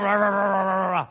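chanted rah rah like a pep rally; half-hearted mock cheer. Mocking youthful zeal.

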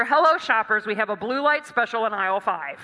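loud booming loudspeaker announcer; booming store announcer. Retold or imitated. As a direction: boom it out like a store intercom. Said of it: "this big booming voice where it's very clear".

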